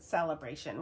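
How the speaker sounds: Celebration opening like "sell"; mispronounced Celebration. Retold or imitated. Host citing other people's version, Celebration as "sell-ebration". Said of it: "heard other people pronounce it".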